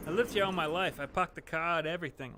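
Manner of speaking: light Boston accent. Shown as a demonstration. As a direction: lean into a Boston local's accent. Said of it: "I can go full on Boston".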